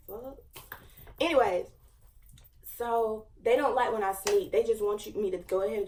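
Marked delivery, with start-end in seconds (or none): 0.1-0.4 muttered curse. Real, not acted. Interrupted by FaceTime, annoyed.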